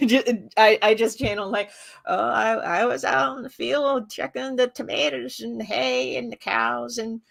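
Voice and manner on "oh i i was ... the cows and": Appalachian grandpa. Retold or imitated. Channeling grandpa for friends with a light Appalachian accent. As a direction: lightly slip into grandpa's country talk. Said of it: "that's my grandpa".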